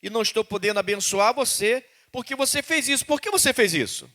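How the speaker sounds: God asking his people why; God pleading. Retold or imitated. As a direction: plead like a disappointed father. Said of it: "O que Deus tá dizendo é o seguinte".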